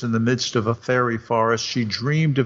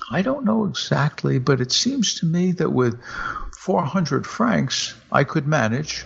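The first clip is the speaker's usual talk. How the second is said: deliberate; 4 semitones higher than usual. Acted. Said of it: "with much deliberation".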